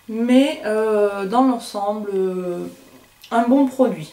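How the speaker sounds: holding back hiccups mid-sentence; suppressing hiccups. Real, not acted. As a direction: speak while fighting off hiccups. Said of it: "j'ai le hoquet". (en retenant son hoquet)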